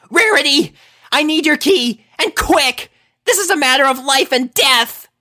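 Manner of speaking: high, loud, urgent plea; desperate Rainbow. Acted. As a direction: beg fast, as if lives depend on it. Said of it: "but still desperate".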